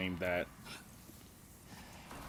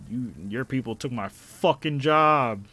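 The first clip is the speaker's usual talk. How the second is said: mock angry coworker; 3 semitones higher, 8 dB louder, slower than usual. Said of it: "some people who were like".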